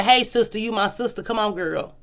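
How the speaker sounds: mock fake friendliness. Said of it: "you wanna say".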